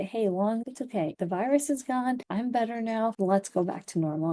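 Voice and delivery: tender pep talk to your own lungs; soothing the lungs. Pretend. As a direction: coax the lungs like calming a scared child. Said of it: "You gotta calm them down and say".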